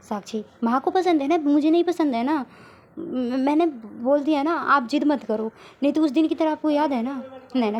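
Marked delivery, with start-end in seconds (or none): 0.6-7.2 heated retort. Acted. Sakshi angrily snapping back at Naina. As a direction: snap back at her, annoyed.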